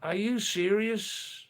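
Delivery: high, drawn-out disbelief; are you serious, stunned; incredulous. Real, not acted. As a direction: ask it like you can't believe what you read. Incredulous reply to chat claim.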